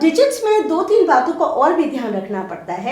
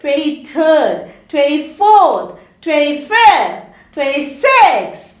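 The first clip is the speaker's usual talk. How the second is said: slow, deliberate ordinals, each ending clear; teacher reading the ordinals very slowly; 3 dB louder, much slower than usual. Shown as a demonstration. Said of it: "then we are going to say".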